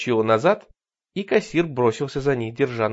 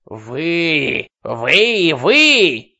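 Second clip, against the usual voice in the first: higher, louder with each word; piercing shout; 5 semitones higher, 8 dB louder, much slower than usual. Acted. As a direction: build to a shrill scream. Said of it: "пронзительно кричала она".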